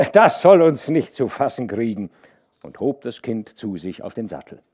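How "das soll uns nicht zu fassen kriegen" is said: lachend. A narrator's reading. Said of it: "Hauke lachte".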